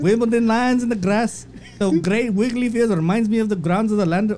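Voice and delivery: bad mock-Irish post reading; amateur Irish accent, slipping as it goes; attempted Irish accent. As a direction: read it as a fake Irish McGregor. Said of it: "Read it in his accent".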